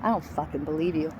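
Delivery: calm, low reply; retold with quiet composure; peaceful calm. Victim answering the man standing over her, peacefully calm. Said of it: "most peaceful God's calm came over me".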